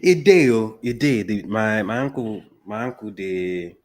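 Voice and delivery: unhurried Nigerian Pidgin; Nigerian accent. Shown as a demonstration. Guest describing a healing ankle, Nigerian Pidgin. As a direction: talk through it in Nigerian Pidgin English. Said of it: "talk in your accent".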